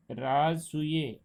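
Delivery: राजसूय said slowly with a full final य; teacher voicing राजसूय slowly as an example; slow example word. Shown as a demonstration. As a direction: stretch out राजसूय so the last य is heard clearly. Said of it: "जैसे".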